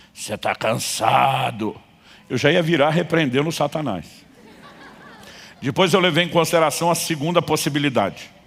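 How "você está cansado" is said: rasping, hollow, resounding, hoarse, cavernous voice. Retelling a voice behind you in the dark while locking the car: hoarse, cavernous voice. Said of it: "uma voz rouca e cavernosa".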